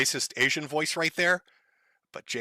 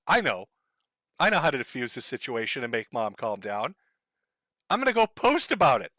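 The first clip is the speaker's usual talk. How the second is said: imagined son deciding; 5 semitones lower than usual. Acted.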